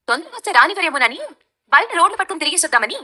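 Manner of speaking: dry mocking reply; sarcastic. Real, not acted. Daughter-in-law answering mother-in-law, sarcastic. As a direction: needle her with sarcasm. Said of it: "అంత వెటకరంగా మాట్లాడుతున్నావు".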